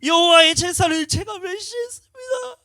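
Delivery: very high, very loud, slow sobbing cry; sobbing confession. Retold or imitated. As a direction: wail the confession through tears. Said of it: "눈물이 펑펑 쏟아져요". (아주 높고 크게 천천히 흐느끼며 고백)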